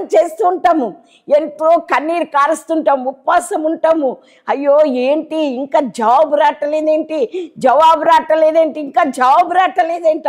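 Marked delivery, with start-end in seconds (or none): 4.5-10.3 anxious complaint. Retold or imitated. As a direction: voice the worried believer waiting for an answer. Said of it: "అనుకుంటాం". (జవాబు రాలేదని ఆందోళనగా వాపోవడం)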